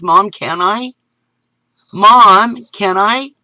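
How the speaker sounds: put-on high, loud child begging; pleading boy. Boy begs mom to take supper over, high pleading. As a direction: push for a yes like a kid.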